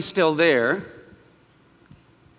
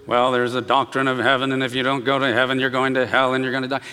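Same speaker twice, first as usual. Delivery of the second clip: flat, dull doctrinal drone; lower, lifeless monotone delivery; boring monotone preacher; 4 semitones lower, faster than usual. Retold or imitated. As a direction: recite it like a bored preacher. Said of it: "And this monotone, boring, weird".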